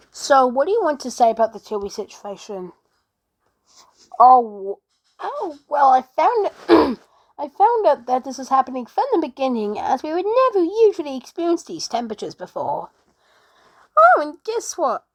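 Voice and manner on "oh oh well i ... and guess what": higher, louder eager babble; excited interviewee. Pretend. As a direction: blurt it out like a thrilled witness. Interviewee answering reporter, excited.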